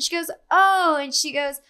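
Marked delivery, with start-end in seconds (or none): 0.5-1.0 high, louder mock 'oh'; mimicked surprise. Ex-friend learning she is the girlfriend, imitated surprise. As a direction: imitate her taken-aback reaction.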